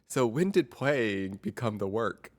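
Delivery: slow, gentle probing question; therapist impression. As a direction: ask it slowly like a calm therapist. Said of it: "that's my impression of a therapist".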